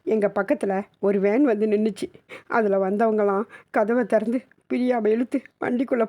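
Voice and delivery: put-on high boy's voice, lightly sobbing, broken up; halting sobs. Boy tells mother how van took sister, halting light sobs. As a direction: stop and start as if through light sobs. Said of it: "தேம்பி தேம்பி கொண்டு நிறுத்தி நிறுத்தி மெதுவாக".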